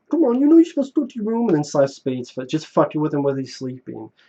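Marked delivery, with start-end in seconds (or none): 0.1-1.4 goofy put-on voice, very high and fast. Retelling a movie character telling someone to go to their room, funny voice. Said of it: "like he says in a, in a funny voice".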